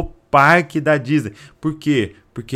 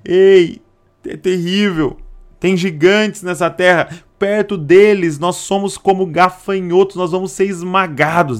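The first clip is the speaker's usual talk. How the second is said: higher, pleading voice of despair; desperate report; 6 semitones higher, 3 dB louder than usual. Retold or imitated. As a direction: cry out the bad news in dread. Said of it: "com uma voz de desespero". (espião desesperado em voz mais aguda)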